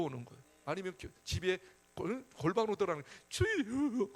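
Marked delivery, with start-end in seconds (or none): 3.3-4.1 acted wailing call to the Lord; mock crying prayer. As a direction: cry out to God, stretching the word. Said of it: "그때 하나님 앞에 우는 거예요".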